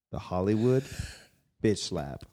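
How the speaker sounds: short gruff bark on the title. Acted. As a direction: bark the words out like a dog. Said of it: "that was a bark?".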